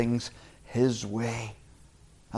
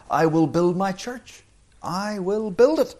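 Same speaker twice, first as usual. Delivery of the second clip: rising declaration; 6 semitones higher than usual. Acted. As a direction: proclaim it, climbing higher on each phrase. Jesus' promise voiced with force.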